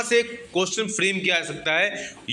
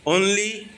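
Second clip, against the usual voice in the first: only said higher and apart; stress on only; 4 semitones higher than usual. Shown as a demonstration. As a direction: hit the word only hard. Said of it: "only linear relationship".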